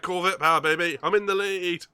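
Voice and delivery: loud, high shout of victory; triumphant whoop. Real, not acted. Racer bragging to friends on taking the lead, exultant shout. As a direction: crow it out at full volume.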